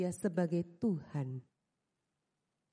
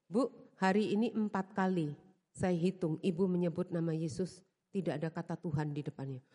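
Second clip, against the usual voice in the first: imitating a congregant man; 6 semitones lower than usual. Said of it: "beliau menyalami saya".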